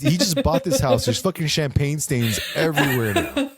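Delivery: high-pitched exasperated protest; playful horrified complaint; mock panic. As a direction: wail about the mess, half laughing. Continues acting the panicked daughter.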